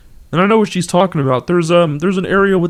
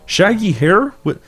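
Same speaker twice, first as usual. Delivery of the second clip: Kermit voice; 2 semitones higher than usual. Acted. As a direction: play the dialogue as Kermit. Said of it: "our regularly scheduled Kermit voice".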